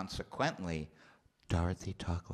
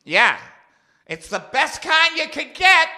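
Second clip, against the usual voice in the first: much higher, loud aunt voice; deaf aunt; 15 dB louder than usual. Retold or imitated. Deaf aunt answering her nephew, loud and high. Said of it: "I said".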